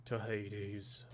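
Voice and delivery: badly faked Jason Statham British accent; terrible Statham accent. Imagining Jason Statham quoting Odysseus, in a terrible accent. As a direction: lightly attempt a bad British accent as Statham. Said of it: "that's a terrible accent".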